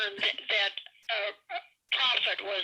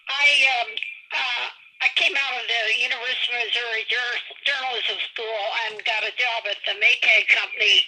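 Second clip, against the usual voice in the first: big hall echo; 7 dB louder than usual. Real, not acted. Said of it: "there's some reverb".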